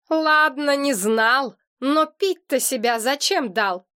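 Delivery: ordinary delivery, nothing marked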